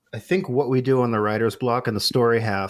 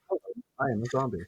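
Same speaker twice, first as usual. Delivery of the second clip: zombie voice; 9 dB quieter, much faster than usual. Acted. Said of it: "It would go something like".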